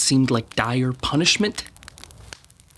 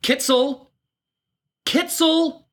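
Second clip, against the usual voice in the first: calling her name, pitched higher; 9 semitones higher, slower than usual. Acted. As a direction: call out across the village to find her. Searching for his sister outdoors.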